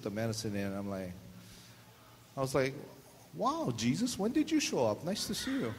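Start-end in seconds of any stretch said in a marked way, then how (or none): 3.3-5.7 mock pain greeting. Needle pain mock greeting Jesus.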